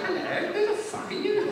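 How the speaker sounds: very high mock-royal greeting; the Queen. Monarch moving on to the next performer, high royal voice. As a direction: greet sweetly in a very high put-on voice. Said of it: "she moves on and goes".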